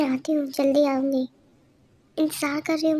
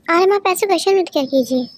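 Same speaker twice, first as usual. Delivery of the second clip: angry scolding; 3 semitones higher, 6 dB louder than usual. Acted. Wife scolding husband, quarrel.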